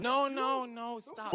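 sharp high "no, no, stop"; loud protest. Real, not acted. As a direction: cut them off loudly. Protesting loudly at a joke.

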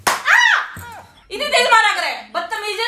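yelps then scolds, pitch up; hammed-up cry of pain at being slapped; mock pained shout. Wife yelps at husband after fake slap, mock pained shout. Wife hit in staged prank.

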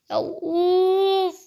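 long frustrated groan; drawn-out fed-up groan; exasperated groan. Real, not acted. Stuck on a puzzle code.

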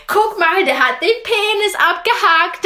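high, loud, giggly pointing-out; teen cousin's glee. Retold or imitated. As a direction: point and giggle at the statue, pitched well up. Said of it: "meine Cousine so".

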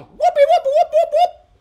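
loud, high whooping with a laugh; joyful whooping. Real, not acted. Celebrating the next song part.

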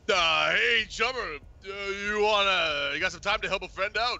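a hint of a whiny fixer; Bozeman voice. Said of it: "Opti is the voice of Bozeman".

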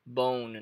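BONE said alone as the stressed part; stressed syllable alone. Shown as a demonstration. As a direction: isolate BONE from trombone, stressed and falling. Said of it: "A entonação vai entrar aqui no bone". (bone isolado, como sílaba tônica)

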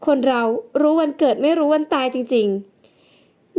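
slow, sighed-out musing; sighing, slow. Acted. Beer sighs over the fortune teller's sudden death, slow and sighing. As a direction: let it out on a slow sigh. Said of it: "เบียร์ถอนหายใจ".

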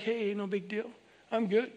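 soft, easygoing brush-off; casual reassurance. Acted. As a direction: wave it off quietly, no fuss. Models shrugging off swearing gently.

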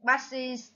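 passes ending in a clear "iz"; final IZ sound. Shown as a demonstration. Teacher shows the ending sound, passes with final "iz". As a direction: say passes with an "iz" syllable at the end. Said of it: "là âm is".

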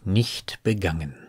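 measured poetry reading, pausing between phrases; poem recitation. Acted. Reciting a poem about two paths in a wood, measured poetry reading.

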